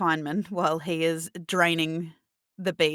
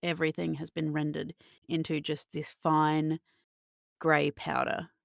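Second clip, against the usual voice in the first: game master narration. Acted. Game master describes fire dying into darkness, measured narration. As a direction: narrate deliberately, letting each phrase hang.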